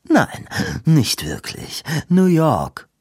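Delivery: cutting him off. A narrator's reading. Hawthorne curtly cutting off Corsay's eager question. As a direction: shut him down mid-sentence. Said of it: "würgte Hawthorne ihn ab".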